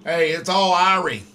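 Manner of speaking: loud, jovial mock-Jamaican; playful put-on Jamaican lilt; playful Jamaican accent. Jokey Jamaican catchphrase to caller.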